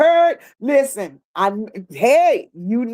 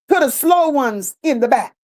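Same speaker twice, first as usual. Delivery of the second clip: slowed for emphasis. Real, not acted.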